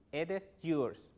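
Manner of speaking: "It is" as "ed es"; linked, open "It is"; corrected pronunciation. Shown as a demonstration. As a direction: say "It is yours" with open e vowels.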